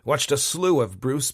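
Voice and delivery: loud Chicago American I tried; real Chicago accent. A narrator's reading. Admitting defeat to Nisha, loud in a Chicago accent. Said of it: "my real voice now well and truly exposed".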